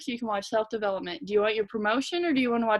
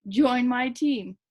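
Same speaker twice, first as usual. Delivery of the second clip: "Join my team." drawn out slowly and firmly; slow earnest pitch; 2 semitones higher, 3 dB louder, much slower than usual. Retold or imitated. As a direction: stretch "Join my team." into a deliberate sales pitch. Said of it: "I'm gonna be like".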